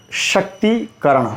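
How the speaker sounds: शक्तिकरण slowly, with a lengthened "tee"; long ī before karan. Shown as a demonstration. Teacher showing the vowel grows long, slowly. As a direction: stretch the ती of शक्तिकरण before करण. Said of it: "बड़ा होगा".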